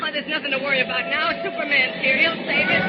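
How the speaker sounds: put-on excited boy. Boy thrilled Superman arrived.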